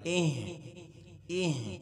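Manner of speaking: اہ as one syllable, ending in an audible h; short vowel closed on a breathed h in اہ; joined, vowelless ہا. Shown as a demonstration. Teacher joining letters for students, اہ closed on h. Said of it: "ہا کے ساتھ ملائیں گے".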